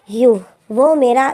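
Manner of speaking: slow, held-back angry start. Acted. To Pam about his father, slow angry start. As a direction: bite back the anger, slowly. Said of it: "गुस्से में हो जाता है".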